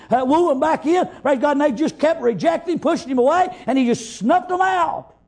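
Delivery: urgent, rolling pulpit warning; fervent preaching. Real, not acted. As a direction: preach a driving warning in one long run. Preaches with force throughout.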